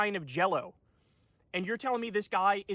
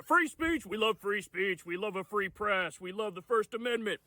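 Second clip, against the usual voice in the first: mock proud Elon; 3 semitones higher than usual. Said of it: "he'll go out there".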